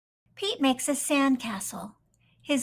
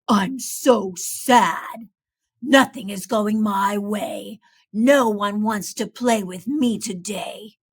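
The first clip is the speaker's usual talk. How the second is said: sad alligator; 3 semitones lower, 5 dB louder than usual. Acted. Lonely Alligator tells Pete nobody plays with him. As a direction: whine about being left out.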